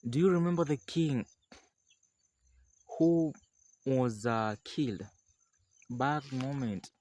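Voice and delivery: high slow questioning; ogre voice. Acted. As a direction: drag out the question. Ogre asks.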